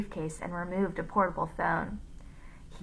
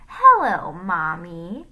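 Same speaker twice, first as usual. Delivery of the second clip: Joe; 10 dB louder, slower than usual. A narrator's reading. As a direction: mimic a boy greeting mommy on the phone. Villain poses as Joe on phone.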